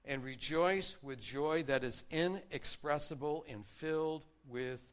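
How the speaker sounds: warm proclaimed reading; scripture reading. Acted. Pastor reading First Peter to his church, joyful. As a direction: read Peter's words with joy.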